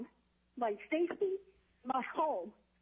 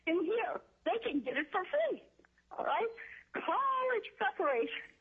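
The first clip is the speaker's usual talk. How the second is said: rising higher, pushing with disbelief; indignant outrage; 5 semitones higher than usual. Real, not acted. Testifying at the hearing, outraged that prisoners get it free, indignant. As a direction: let the indignation spike up.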